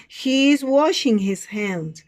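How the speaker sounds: slow, clear classroom model; model sentence for repeating. Shown as a demonstration. Teacher reads picture number four, slow model delivery. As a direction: say it slowly for students to copy. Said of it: "Repeat after me".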